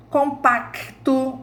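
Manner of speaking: "compacto" slow with the c sounded as a clear k; pronounced consonant. Shown as a demonstration. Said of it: "ó, o K, o K é o C". ("compacto" devagar, com o c falado como k)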